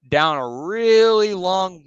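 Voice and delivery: slow, lifted stress on "really long"; stretched emphasis. Real, not acted. Emphasises length of road.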